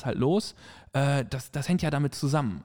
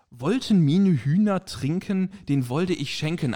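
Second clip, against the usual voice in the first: put-on light drunken slurring; 4 semitones higher, 4 dB louder, slower than usual. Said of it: "dann dieser wunderbare Satz".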